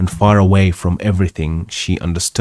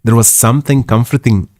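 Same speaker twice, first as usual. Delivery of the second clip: trace of the maid's Yorkshire accent; Yorkshire dialogue accent slipping into narration, slightly lifted; lingering character accent; 3 semitones higher, faster than usual. Real, not acted. Narrator carries on after maid's dialogue, still in Yorkshire accent. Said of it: "Lose the accent".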